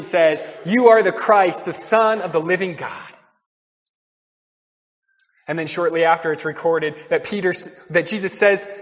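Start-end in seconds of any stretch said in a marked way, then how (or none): 0.7-3.1 mildly exalted acted declaration; inspired declaration. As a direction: proclaim it as a sudden realisation, lightly acted. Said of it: "in a burst of inspiration".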